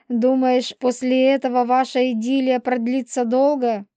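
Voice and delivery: spiteful she-wolf. Acted. Полина runs down Елисей's new girl, spiteful. Voices Polina's tirade against the girl.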